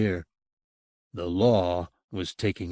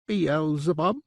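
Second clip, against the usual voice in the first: proud; 6 semitones higher than usual. A narrator's reading. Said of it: "proud to name its old master".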